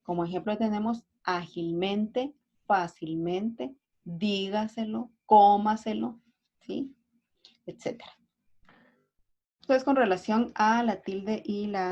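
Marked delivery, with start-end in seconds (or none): 2.7-6.2 fácilmente, dígaselo, cómaselo drawn out, each stressed on its first syllable; teacher's slow stress examples. Shown as a demonstration. Teacher giving examples of sobreesdrújulas, slow stress on the first syllable of fácilmente, dígaselo, cómaselo. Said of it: "llevan la acentuación en la ante-antepenúltima sílaba".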